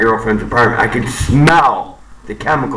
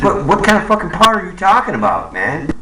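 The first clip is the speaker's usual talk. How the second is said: sharp, higher and fast demand; retold angry demand; 5 semitones higher than usual. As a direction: fire the question back at the caller. Angry retold phone call with caller.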